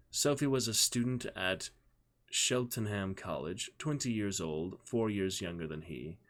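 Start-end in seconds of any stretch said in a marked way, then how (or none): none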